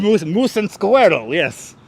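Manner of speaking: imitated Russian coworker's accent; light mock Russian accent. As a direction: quote it in a comic Russian accent. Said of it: "Worked with a Russian guy".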